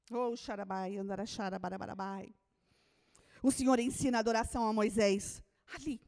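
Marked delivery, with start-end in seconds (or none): 0.1-2.3 murmured tongues; speaking in tongues. Real, not acted.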